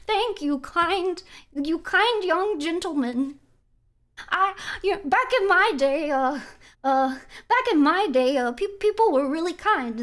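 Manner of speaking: put-on sweet old lady; grandma voice. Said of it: "Was that a good grandma voice?".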